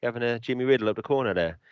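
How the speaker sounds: casual British street banter, demonstrating the accent; matey British accent demo; British colloquial accent. Shown as a demonstration. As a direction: show off everyday British dropped-word speech. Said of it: "that's how we talk".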